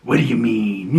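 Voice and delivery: lightly imitated brooding interrogator; a hint of moody masked menace; Batman voice. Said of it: "he's using his Batman voice".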